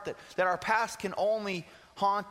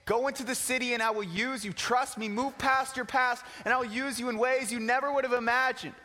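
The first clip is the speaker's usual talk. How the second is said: fervent preaching; 5 semitones higher than usual. Acted. Preaching Jesus' words with fervor.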